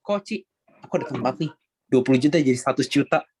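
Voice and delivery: half-hearted sales pitch without conviction; unconvincing. Shown as a demonstration. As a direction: pitch it as if unsure it works. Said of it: "Mungkin nadanya begitu jadi nggak meyakinkan". (kurang meyakinkan, tanpa keyakinan)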